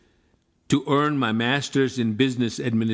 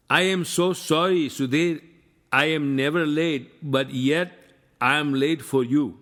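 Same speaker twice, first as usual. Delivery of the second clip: put-on Pakistani English accent; 3 semitones higher than usual. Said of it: "in his Pakistani English accent".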